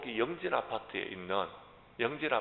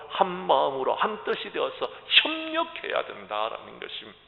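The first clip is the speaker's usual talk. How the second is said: raised, emphatic sermon voice; forceful preaching; 7 semitones higher, 11 dB louder than usual. Real, not acted. Pastor urging believers to fight the devil together, emphatic preaching. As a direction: drive each point home to the congregation.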